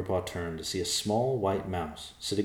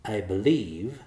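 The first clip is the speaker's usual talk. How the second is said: air of superiority; 3 semitones higher, 4 dB louder, slower than usual. Acted. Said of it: "with an air of superiority".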